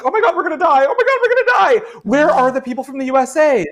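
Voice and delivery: high shrieking panic, voice cracking up; panicked screaming. Acted. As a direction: scream it like the world is ending. Panicked NPCs in IT department.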